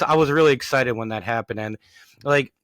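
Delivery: ordinary talk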